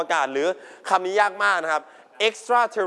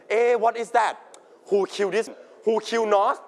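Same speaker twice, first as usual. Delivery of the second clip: higher-pitched puzzled viewer; curious wondering; 3 semitones higher than usual. Acted. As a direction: act out a viewer wondering whodunit. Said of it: "a lot of wonder and curiosity". (สงสัยใคร่รู้ เสียงสูง)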